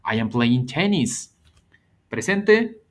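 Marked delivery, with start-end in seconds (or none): 0.0-1.4 slow and even, stress on tennis; slow model sentence. Shown as a demonstration. Teacher showing present progressive, slow and clear. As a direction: read it slowly for the class. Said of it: "Vean la diferencia".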